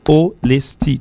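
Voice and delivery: "Honesty" in three distinct beats; three separate syllables. Shown as a demonstration. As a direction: count out the syllables of "Honesty" as you say it. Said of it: "trois syllabes".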